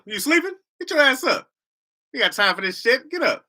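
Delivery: high, exasperated wake-up rant; mock indignant scolding. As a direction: badger a sleeper out of bed. Scolding the sleepy caller.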